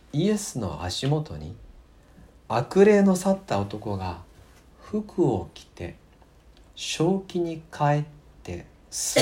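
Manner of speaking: measured, earnest Bible reading voice; scripture reading. Acted. Pastor reads Gospel to congregation, earnest scripture reading. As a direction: read the Gospel passage out to the congregation.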